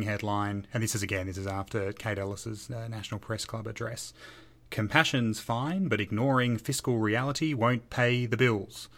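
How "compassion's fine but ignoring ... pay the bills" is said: slow, measured TV presenter read; Media Watch voice. Retold or imitated. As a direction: read it like a deadpan media critic. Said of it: "That was my attempt at a Media Watch voice".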